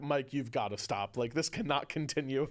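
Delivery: a hint of a disappointed father; fatherly annoyance. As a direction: gently scold like a fed-up father. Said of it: "this fatherly, like, way about it".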